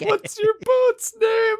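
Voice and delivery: high, slow, hammed-up posh greeting; mock British greeting. Podcaster mocking British first dates, high and slow. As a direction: ham up the odd greeting, slow and lifted.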